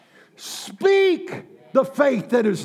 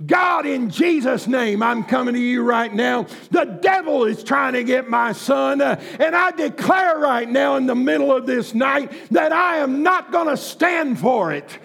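fervent prayer; 3 semitones higher than usual. Retold or imitated. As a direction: cry out to God for her son. Mother's fervent prayer retold.

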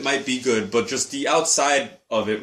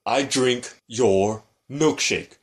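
acted movie quote; much slower than usual.

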